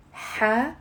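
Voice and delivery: حساسية in four separate syllables, ha, se, si, ye. Shown as a demonstration. Teacher getting learners to repeat along, syllable by syllable. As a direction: break حساسية up with long gaps, ha... se... si... ye. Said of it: "It's four syllables".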